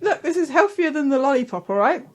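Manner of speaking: talking through a mouthful of apple; mouth full. Real, not acted. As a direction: speak around a bite of apple. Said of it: "with a mouthful of apple".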